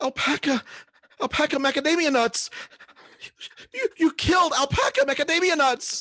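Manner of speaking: very high, shrill, screeching gnome scream. Voicing a gnome who sees its pet alpaca killed: gnome screaming. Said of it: "the gnome screams".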